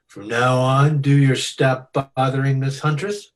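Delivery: speaking through a chuckle; amused, laugh spilling into words. Acted. Gangster laughing at the joke.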